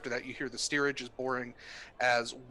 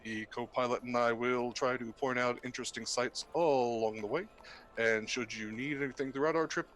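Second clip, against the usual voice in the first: pilot announcement over intercom; captain on the PA, measured and calm; pilot cockpit headset. Acted. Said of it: "sounds like a legit pilot".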